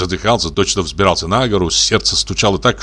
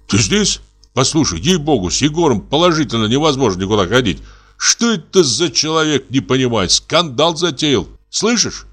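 worried; 4 semitones higher than usual. Acted. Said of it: "сказал встревоженно".

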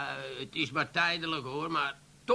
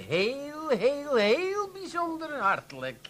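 sarcastic thanks; 9 semitones higher, slower than usual. Acted. Barman mocking the small tip.

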